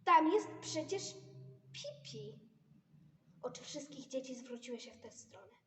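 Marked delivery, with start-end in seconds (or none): 0.0-2.4 high excited call. Acted. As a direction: point it out excitedly. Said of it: "zawołał".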